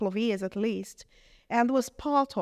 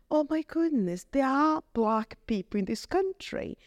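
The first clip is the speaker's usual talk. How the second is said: amazed; 5 semitones higher than usual. Retold or imitated. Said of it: "I said".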